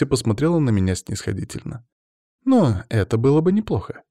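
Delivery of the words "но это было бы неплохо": giggling. A narrator's reading. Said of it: "хихикнула".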